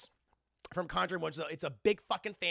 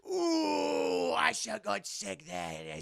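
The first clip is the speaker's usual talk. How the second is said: Cockney teacher; much slower than usual. Retold or imitated. Teacher sneaking a smoke, relishing mock Cockney. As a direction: savour the cigarette like a crude Cockney teacher.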